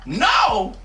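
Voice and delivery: drawn-out, high mock shock; mock disbelief. Teasing the boss who never heard of her, mock disbelief. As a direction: act scandalized that he doesn't know.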